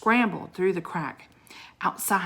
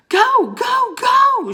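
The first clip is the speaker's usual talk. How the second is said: high, loud yell at the wolf; shout; 9 dB louder, much slower than usual. Acted. Jack shouting at the white wolf to scare it, loud. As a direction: drive the wolf back with your voice. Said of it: "shouted Jack".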